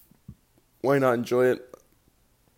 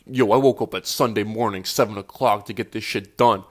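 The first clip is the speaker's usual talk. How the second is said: mock hype voice; 5 dB louder than usual. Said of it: "which might sound like".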